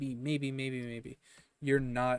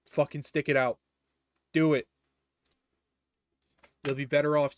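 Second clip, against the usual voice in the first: emphatic urging; 2 semitones higher, 7 dB louder than usual. Real, not acted. Urging students to persevere.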